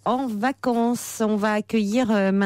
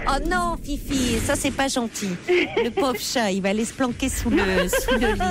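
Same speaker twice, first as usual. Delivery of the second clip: cooing pet talk; 3 semitones higher than usual. Real, not acted. Host cooing over the frightened cat.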